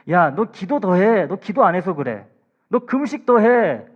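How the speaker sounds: loud, slow, finger-wagging rebuke; mock scolding. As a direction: lecture him like a harsh preacher. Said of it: "라고 하지 않으셨습니다".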